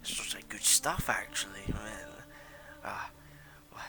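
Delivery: lightly voiced old smoker woman; a hint of a rough old trader peering at silk. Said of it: "very smoker voice type deal".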